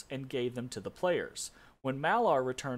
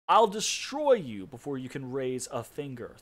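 mild threat; 4 dB louder than usual. Acted. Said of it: "threatened Baal the assassin".

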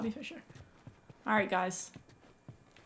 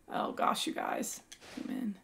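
whisper; 3 semitones lower, 6 dB quieter than usual. Real, not acted. Sneaking near a nest.

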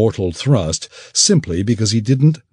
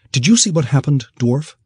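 much higher, sharp commanding woman's voice; demanding; 8 semitones higher than usual. Acted. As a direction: insist on an answer. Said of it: "she demanded".

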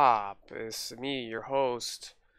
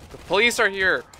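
loud high playful alarm call; mock alarm; 8 semitones higher, 8 dB louder than usual. Role-playing gangbanger warning about police, loud mock alarm. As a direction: shout it like a hammed-up gangster.

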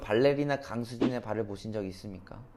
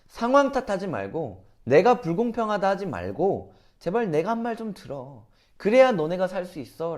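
raised, insistent pleading; loving plea; 4 semitones higher than usual. Retold or imitated. God pleading with people He still loves, urgent entreaty. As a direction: beg them to listen, pitched up and urgent. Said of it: "그들을 아직도 사랑했기 때문이죠".

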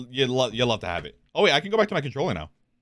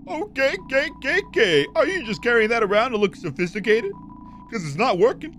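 high game-character voice; 10 semitones higher than usual. Acted. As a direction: pitch it way up and stretch the words. Same game character voice again.

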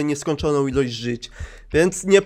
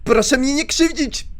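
scared yelling; 9 semitones higher than usual. Real, not acted. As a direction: shout it in real fright. Przestraszony okrzyk w horrorze. (przestraszony, głośny krzyk)

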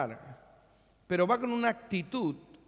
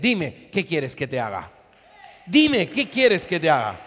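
louder, proclaiming Jesus's question; shouted question; 3 semitones lower, 6 dB louder than usual. Retold or imitated. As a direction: cry it out to the whole church. Jesus voiced, preacher shouting.

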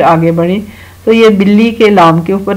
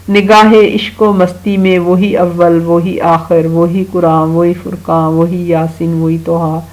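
slow, measured recital of Urdu verse, each line set apart; poem recitation. Acted. Teacher reciting a verse to children, slow and measured. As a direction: recite the couplet slowly to the children.

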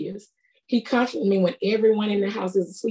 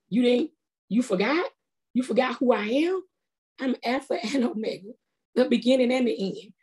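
higher, lifted voice of a confident God reassuring; God encouraging; 3 semitones higher than usual. Retold or imitated. Preacher voicing God reminding her he brought her through before, higher and confident. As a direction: lift your pitch and speak as God, sure and encouraging. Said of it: "That's how he talked to me".

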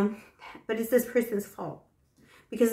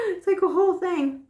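breathless; 9 semitones higher, 3 dB louder than usual. Real, not acted. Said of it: "when I'm gasping for air".

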